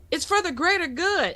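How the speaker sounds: high-pitched imitation of her son; hammed-up movie quote; quoted movie line. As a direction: pitch it up, mock-pleading. Mother quotes son's movie line.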